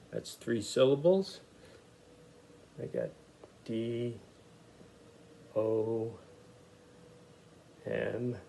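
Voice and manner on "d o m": each letter spoken slowly and separately; D, O, M spelled aloud one by one; spelling letters out. Shown as a demonstration. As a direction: spell it out letter by letter for young readers. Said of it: "I'll sound it out as we go along".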